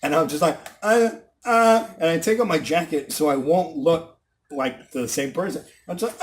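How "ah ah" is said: two short, higher "ah" sounds; imitated short moans; feigned wordless cries.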